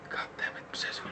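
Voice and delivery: hushed, frustrated whisper; whispered curse. Real, not acted. Player cursing as the enemy escapes, whispered. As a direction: curse it under your breath.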